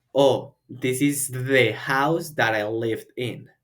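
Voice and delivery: slow, clear role-play line; slow dialogue model. Shown as a demonstration. Teacher acting a walker in a dialogue. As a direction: act the first speaker slowly. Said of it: "tú vas a hacer".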